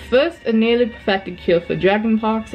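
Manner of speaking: lightly put-on British reading voice; put-on British accent. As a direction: quiz question in an assumed British accent. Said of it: "I don't know why I'm doing an accent".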